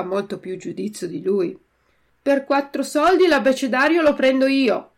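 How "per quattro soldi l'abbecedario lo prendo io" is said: loud, quick call of a street dealer; shouted offer. A narrator's reading. Used-clothes dealer cutting in on the boys, shouting loudly. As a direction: bark the offer across the crowd, loud and fast. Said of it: "gridò un rivenditore".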